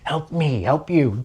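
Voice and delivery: half-hearted try at the film hero's famous plea; Tom Cruise impression. Vlogger retries the movie quote for viewers, a terrible impression. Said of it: "I'm not gonna start doing Tom Cruise impressions".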